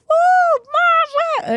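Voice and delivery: very high whooping cry; re-enacted shouting. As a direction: whoop and call out over a loud dance floor. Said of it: "shouting as loud as I can".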